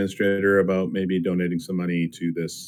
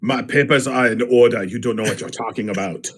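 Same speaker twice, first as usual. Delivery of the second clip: mock German official's accent. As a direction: put on a stern German accent. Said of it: "Does he say it with a German accent?".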